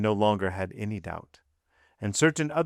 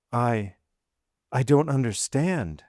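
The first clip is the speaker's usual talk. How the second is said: faltering; 3 semitones higher, 3 dB louder than usual. A narrator's reading. Wife accused of poisoning, faltering in alarm. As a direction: break off after the first word, then protest.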